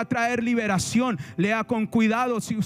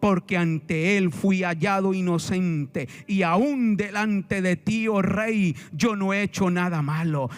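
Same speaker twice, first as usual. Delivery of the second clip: slow, lower, measured recitation; solemn scripture reading; 4 semitones lower than usual. Acted. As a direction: read Daniel's reply slowly and low. Reads Daniel's reply from scripture.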